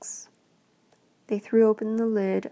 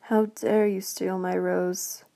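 growling beast; slower than usual. Acted. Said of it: "it growled".

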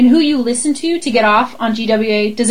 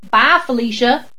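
Southern accent. Shown as a demonstration. Mock-coaching an actress to repeat after her, Southern accent. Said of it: "I should have been her accent coach".

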